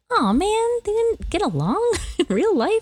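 mock dismay. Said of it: "And I was like".

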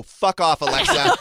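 angry yell. Retold or imitated. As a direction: shout it at the device, fed up. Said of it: "I go".

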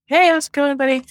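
cheery greeting. Retold or imitated. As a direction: greet an old friend with a happy lift. Greeting an old friend at river.

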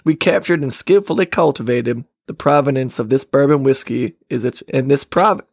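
lightly put-on Texas accent. Host reads whiskey label aloud, in Texas accent. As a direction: read it off as a Texan. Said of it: "read it in a Texas accent".

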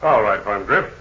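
normal talking voice

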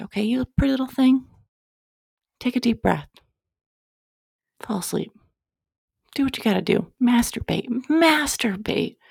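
put-on baby the listener like a doting mom; doting mama voice. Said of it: "I'm gonna stop talking like this now".

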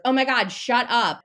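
mock snapping. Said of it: "we're not yelling at the dog that way".

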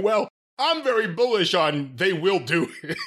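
slow, laughing parody; laughing slow mock. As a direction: drag it out while laughing. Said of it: "mock Nick Khan reply".

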